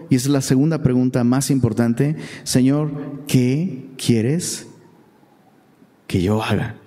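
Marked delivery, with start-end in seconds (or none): 2.4-6.8 slow, low, hushed trembling plea; a fearful man asking his Lord very slowly. Acted. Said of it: "Él temblando y temeroso dijo".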